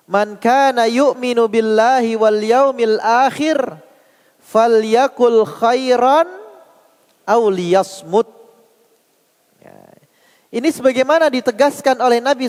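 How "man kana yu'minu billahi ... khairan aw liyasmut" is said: measured Arabic recitation of a hadith. Acted. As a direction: recite the Arabic text with drawn-out syllables.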